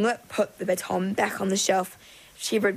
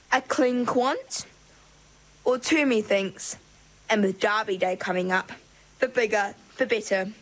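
haughty mermaid queen. Acted. Grand Mermaid voiced, higher, slower.

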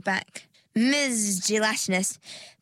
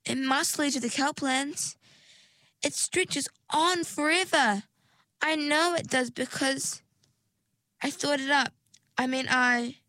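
higher, insistent disbelief; high pleading; 6 semitones higher than usual. Acted. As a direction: plead that it must be so. Desperate insistence, pitch raised.

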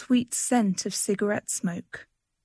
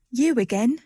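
louder, scornful toss of the head; 3 semitones higher, 4 dB louder than usual. A narrator's reading. Woman finds the stranger still there, scornful. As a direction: sneer it at him. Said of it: "she said scornfully".

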